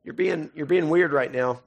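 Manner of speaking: acting out awkward discomfort; awkward unease. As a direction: stretch it out, uneasy and reluctant. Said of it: "awkward, and we're like".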